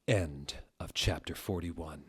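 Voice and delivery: soft whispered sign-off. Real, not acted. Reader closing the chapter, whispered. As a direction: whisper the ending.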